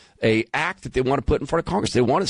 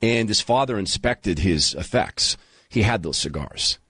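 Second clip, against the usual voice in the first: emotional; 2 semitones lower than usual. Real, not acted. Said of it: "sorry, these things make me emotional".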